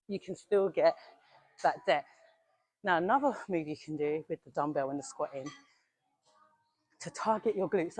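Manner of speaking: slightly winded after training; talking while catching breath. Real, not acted. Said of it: "I'm a bit out of breath".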